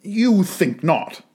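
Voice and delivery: slow, struggling words; a man struggling to answer his fiancée, slow; with a struggle. Acted. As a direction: force it out with effort. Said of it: "with a struggle".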